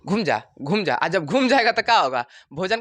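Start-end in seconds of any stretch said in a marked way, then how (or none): 0.1-0.9 high, excited repeated orders to turn; urgent command. Acted. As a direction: hurry it round like an urgent alarm. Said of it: "brain तुरंत सूचना देगा".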